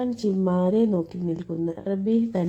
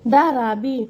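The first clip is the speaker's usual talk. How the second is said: ഡാ റാബി called higher, rising at the end; calling out loud; 6 semitones higher, 3 dB louder than usual. Acted. Mother calling ഡാ റാബി from inside the house, higher and rising. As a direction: call out to him, ഡാ high and rising.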